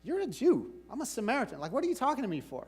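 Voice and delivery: a touch of sassy pushback, pitch up on "you're a Jew"; lightly voiced woman brushing off a stranger; Samaritan woman's attitude.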